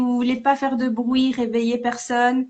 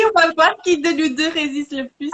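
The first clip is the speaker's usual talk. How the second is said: laughing shout; 3 semitones higher than usual. Real, not acted. Challenging partner, laughing loudly.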